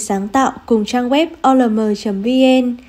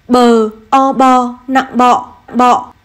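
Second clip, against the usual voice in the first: slow spelling then reading; slower than usual. Shown as a demonstration. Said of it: "cùng cô đánh vần và đọc trơn".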